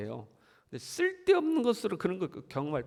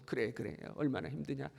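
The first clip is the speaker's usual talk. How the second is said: softer, soothing reassurance; gentle comfort; 4 dB quieter than usual. Retold or imitated. 힘든 친구를 위로하는 사람, 부드럽게 달래듯이. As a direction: comfort a struggling friend tenderly. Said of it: "이런 말 하고 싶잖아요".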